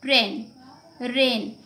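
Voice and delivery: ट्रेन and रेन said clearly with the A sound only; careful demonstration; teacher modeling. Shown as a demonstration. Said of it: "आई का sound बिल्कुल नहीं आ रहा है".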